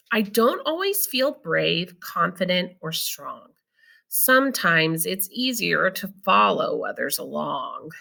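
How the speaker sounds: slow, gentle read-aloud voice; reading to children. Acted. Teacher reading a picture book to her students, slow and gentle. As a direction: read it slowly for the class.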